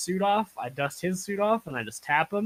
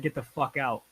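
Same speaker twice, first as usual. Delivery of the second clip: rude; 5 dB quieter than usual. Retold or imitated. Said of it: "I say it in a rude ass way".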